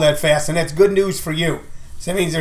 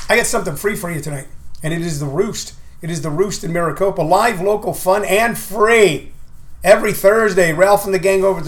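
radio ad read; 2 semitones higher than usual. Acted. Ad read for the show.

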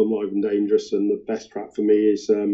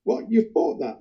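a sudden high squeak of surprise; mock astonished, voice jumping up; playful imitation of a startled rock star; 14 semitones higher than usual. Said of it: "And he said".

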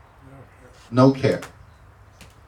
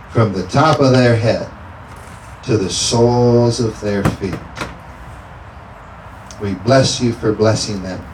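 preacher praying with fervor; fervent prayer. Acted. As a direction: pray it out with conviction. Prayer for healing, louder.

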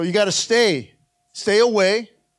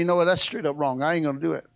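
blunt refusal; 7 semitones lower, 4 dB quieter, much faster than usual. Shown as a demonstration. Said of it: "Instead of saying".

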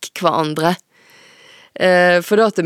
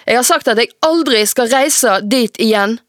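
angry protest; 5 semitones higher, 4 dB louder than usual. Acted. Teen protests furiously.

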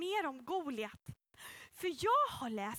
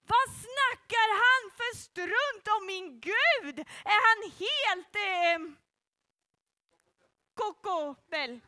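louder, slow indignant outburst; angry David; 4 semitones higher, 6 dB louder, slower than usual. Acted. David, angry at the giant's mockery of God, outraged and slow. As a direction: demand it like an offended young hero.

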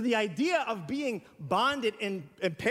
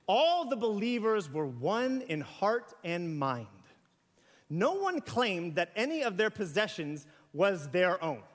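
scripture reading; slower than usual. Acted. Reads scripture aloud.

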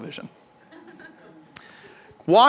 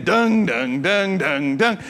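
voiced drumbeats; drum imitation; much slower than usual.

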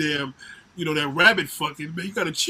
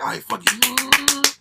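slow, higher, resigned give-up; giving in; 7 semitones higher, 5 dB louder, much slower than usual. Retold or imitated. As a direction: let it go with a drawn-out sigh of surrender. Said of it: "You're like".

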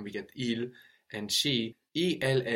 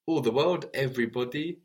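emphatic gloss; 3 semitones higher, 3 dB louder, faster than usual. Shown as a demonstration. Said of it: "teacher emphasizes gloss".

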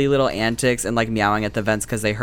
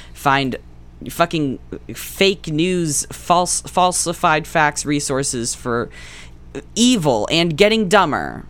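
mock ad tagline; 6 semitones higher, much slower than usual. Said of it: "Made him a new tagline".

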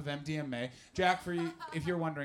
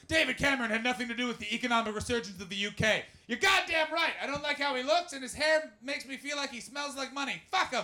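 mock Guardian voice; 8 semitones higher, 4 dB louder than usual. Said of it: "Just like".

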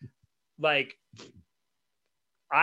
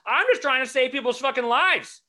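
emotional; 9 semitones higher, 4 dB louder than usual. Retold or imitated. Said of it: "I'm a little emotional about it".

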